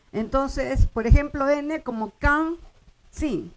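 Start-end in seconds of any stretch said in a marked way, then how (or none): 2.2-3.5 "can, sin" with each final N melted into a nasal vowel; nasalized final N. Shown as a demonstration. Teacher giving an example of syllable-final N, nasalized. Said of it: "es una nasalización".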